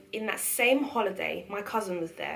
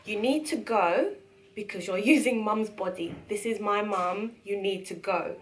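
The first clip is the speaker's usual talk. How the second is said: louder, tearful plea; pleading through tears; 4 dB louder than usual. Retold or imitated. Girl begging grandma's spirit to leave, tearful. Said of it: "Mid crying".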